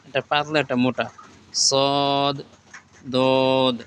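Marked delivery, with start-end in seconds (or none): 1.7-3.8 letter names stretched long, one by one; slow, stretched Arabic letter names; drawn-out recitation. Shown as a demonstration. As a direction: draw out each letter name like a Quran teacher. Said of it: "আমরা একবার পড়েছি".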